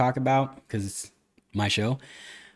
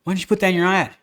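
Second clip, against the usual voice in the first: mock outraged disbelief; 7 semitones higher, 4 dB louder, much faster than usual. Buyer mocking the dealer's hidden price, higher in mock disbelief. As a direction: pitch jumps higher in a mock indignant what.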